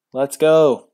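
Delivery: loud cheer falling on go; loud cheer with a falling finish. Real, not acted. Cheering for the draw.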